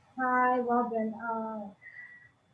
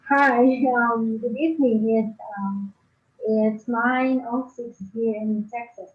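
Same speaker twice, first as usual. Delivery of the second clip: tin can sound; 6 dB louder than usual. Real, not acted. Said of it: "sound like you're in a tin can".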